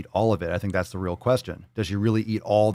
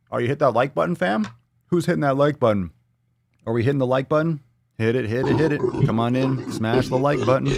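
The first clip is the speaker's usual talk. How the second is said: hype call; 4 semitones higher, 4 dB louder than usual. Real, not acted. Hyping viewers to like.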